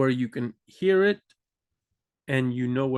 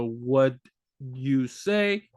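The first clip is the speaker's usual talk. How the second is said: clipped casual form; 2 semitones lower, much slower than usual. Shown as a demonstration. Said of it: "or the".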